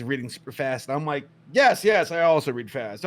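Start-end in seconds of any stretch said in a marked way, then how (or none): 1.5-3.0 loud, raised retold "me too"; eager bluffing kid. Kid bluffing to classmates about reading fast, eager. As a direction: imitate an over-keen kid bluffing.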